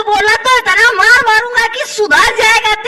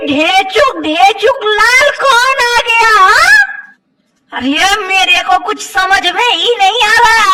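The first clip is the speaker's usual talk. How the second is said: exasperated outcry. Acted. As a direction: throw up your hands and shout it out. Doctor baffled, comic outburst. (झुँझलाकर ज़ोर से चिल्लाना)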